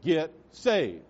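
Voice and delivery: a light impression of a church lady's answering-machine message; imitating Mrs. Lynch. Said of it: "That's how she said it".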